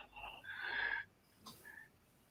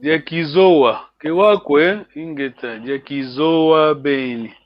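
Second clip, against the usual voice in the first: tune climbs on Diakizoa and Kewakwe, drops on Ingeta and Diakizoa Ben; first line takes off upward, second line lands, slowing at the end; teacher shows the class the tune of question and answer, rising then falling; rise then land. Shown as a demonstration. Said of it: "you are taking off, ... you are landing".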